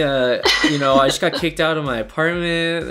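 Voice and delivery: mock oversharing interviewee. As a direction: play the sad-sack candidate dumping everything. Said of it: "You're like".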